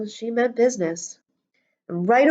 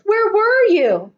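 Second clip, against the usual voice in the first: put-on high, loud, slow child voices; eager kids; 11 semitones higher, 6 dB louder than usual. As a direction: call it out in happy disbelief. Kids overjoyed teacher returned.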